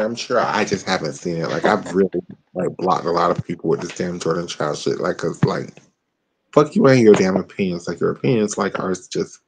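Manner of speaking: low, mellow high voice; talking while high; stoner. Real, not acted. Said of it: "I'm kinda high right now".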